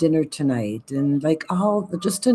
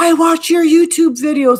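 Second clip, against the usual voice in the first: shrill, very high, very loud excited yell; 12 semitones higher, 9 dB louder than usual. Retelling how a guy in a restaurant called out: imitating someone yelling. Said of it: "he starts yelling".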